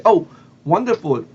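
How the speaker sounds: lightly acted burst of enthusiasm; excited. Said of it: "she got excited".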